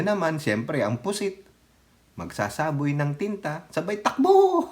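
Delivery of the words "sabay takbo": sudden high burst; high comic burst; excited. Real, not acted. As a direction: blurt the punchline high. Punchline about squid fleeing.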